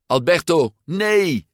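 high, loud protest; crying out. A narrator's reading. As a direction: call after a friend in alarm. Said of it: "riep Luca". (luid uitroepend)

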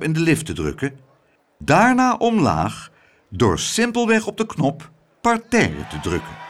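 lively, emphatic announcer's oration; addressing the crowd. A narrator's reading. Mayor announcing the lift demonstration to the crowd, proclaiming. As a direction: proclaim each step to the audience. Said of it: "sprak de menigte toe door".

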